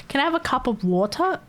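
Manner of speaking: hammed-up request with a crisp T in "water"; mock proper T. Australian imagining asking for water properly, mock crisp T in "water". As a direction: act out asking, overdoing the T in "water". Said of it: "Can you imagine saying water?".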